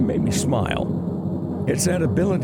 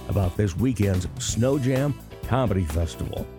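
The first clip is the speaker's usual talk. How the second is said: hoarse, raspy throat; speaking through a raspy voice. Real, not acted. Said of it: "a bit of a raspy voice".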